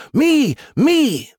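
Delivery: very high, squealed begging; squeaky, insistent eagerness; eager pleading. A narrator's reading. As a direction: plead to be chosen. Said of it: "the missiles all pleaded".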